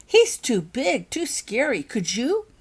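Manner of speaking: high, loud, slow frightened plea; panicked. A narrator's reading. Becky pleads with Gwen and Ben, panicked and high. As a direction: plead from fear. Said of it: "said Becky in a panic".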